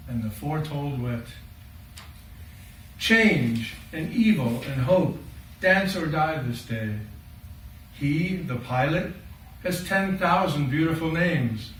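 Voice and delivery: measured dramatic monologue in verse; poem recital. Acted. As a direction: recite as Noah's eldest son, with deliberate pauses between phrases.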